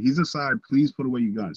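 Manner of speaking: high, loud desperate pleading; begging mother. Retold or imitated. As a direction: beg the police, voice up and pushed. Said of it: "She begs".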